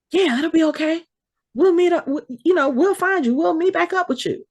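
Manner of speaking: high, breezy, too-casual reassurance; nonchalant Jerry. Retold or imitated. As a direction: play it light like nothing's wrong.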